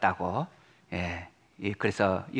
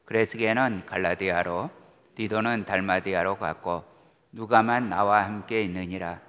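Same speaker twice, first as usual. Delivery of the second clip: measured, solemn Bible reading; calm liturgical reading voice; scripture reading; 3 semitones lower than usual. Acted. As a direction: read the epistle steadily to the congregation. Reads scripture aloud.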